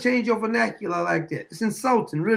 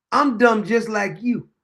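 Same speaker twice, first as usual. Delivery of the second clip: mock talking down; 3 semitones higher than usual. Host quoting politician to the crowd, mock condescension. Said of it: "He's trying to talk down to him".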